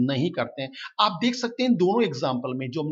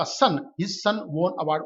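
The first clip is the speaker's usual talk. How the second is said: spaced out word by word; slow dictation reading; much slower than usual. Shown as a demonstration. Teacher reading the example to the class, slowly. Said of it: "teacher reads the example sentence".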